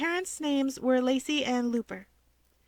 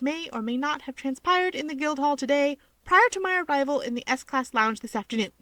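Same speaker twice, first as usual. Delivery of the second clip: a touch of a formal vow, brisk; formal oath; 3 semitones higher, 3 dB louder than usual. Acted. Mage swearing a solemn contract to him, mock formal and quick. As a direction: rattle off the promise like a contract. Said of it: "Wow, that's thorough. And fast".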